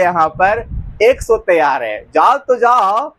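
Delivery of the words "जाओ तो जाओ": slow, lightly sung-out dare to leave; mock taunt. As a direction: tease him to go, drawing it out. Wife taunting husband leaving. (ताना मारते हुए धीरे से)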